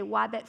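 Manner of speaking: "wabbit" with a w in place of the r; childish lisp. Shown as a demonstration. A parent imagining their non-speaking child's lisped "wabbit". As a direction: say "wabbit" like a small child who can't make an r yet. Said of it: "their non-speaking child say".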